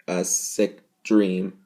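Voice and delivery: slow, loud pleading announcement; mock public service plea. Reviewer pleading to viewers in a mock ad, slow and loud. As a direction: plead like a PSA ad.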